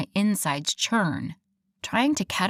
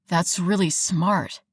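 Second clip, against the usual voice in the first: impressed. Acted. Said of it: "He sounded impressed and oddly proud".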